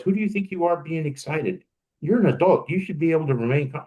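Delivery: put-on old inner critic voice. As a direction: nag yourself like a disapproving parent. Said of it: "you hear the voice".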